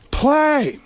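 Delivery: slow, menacing Pacino drawl; a gravel-edged Al Pacino, unhurried; Pacino impression. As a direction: lean in and let the contempt build. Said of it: "And he goes".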